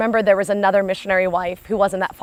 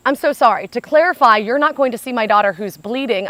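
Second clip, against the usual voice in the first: louder, higher, indignant "To clarify"; retold angry outburst; 3 semitones higher, 4 dB louder than usual. Mother confronting a receptionist who refuses her bleeding daughter, angry and raised. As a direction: demand an answer from the receptionist, tightly furious. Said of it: "you need to lower your voice".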